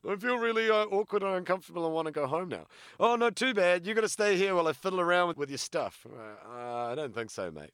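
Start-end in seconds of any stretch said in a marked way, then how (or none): 0.1-2.7 high, loud, squeaky complaint; mock whiny plea. Scene: quoting himself asking to leave, high whiny mock plea. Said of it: "I sit there going". 3.0-6.1 high, loud and fast, brushing him off; mock dismissive grabber. Scene: imitating the guy who won't stop, high fast mocking dismissal.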